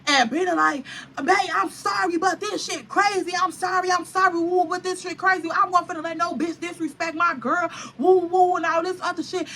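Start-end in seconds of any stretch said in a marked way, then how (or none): 1.2-9.5 apologetic friend. Retold or imitated.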